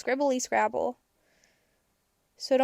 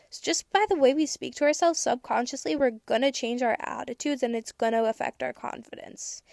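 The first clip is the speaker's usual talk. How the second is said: ordinary talk, nothing marked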